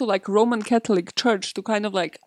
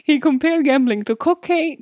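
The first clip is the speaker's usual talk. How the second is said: louder, higher, savoring the word; relishing cocaine; 6 semitones higher, 4 dB louder than usual. Real, not acted. Co-host hears the favorite word punched. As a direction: lean into it with glee. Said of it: "my favorite word".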